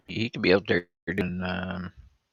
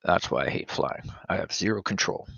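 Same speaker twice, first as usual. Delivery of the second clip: whispered; 3 semitones lower, 6 dB quieter than usual. Real, not acted. Aside after joke.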